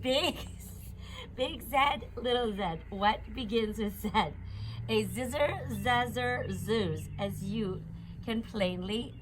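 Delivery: sing-song picture-book read-aloud; reading to a child. Acted. Reading an alphabet book aloud to her baby, sing-song. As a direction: read it bouncy and playful for a little one. Reads Dr. Seuss ABC to child.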